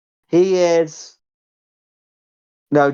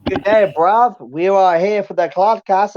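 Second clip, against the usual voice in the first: high put-on London roadman voice, slow; bad roadman accent; 5 semitones higher, slower than usual. Host opening the podcast in a bad roadman accent. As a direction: ham up a bad roadman accent mixed with wrestler swagger. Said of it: "what kind of accent did you try to do".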